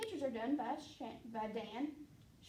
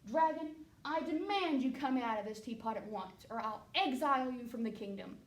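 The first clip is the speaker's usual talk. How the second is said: commanding king; 4 dB louder than usual. Acted.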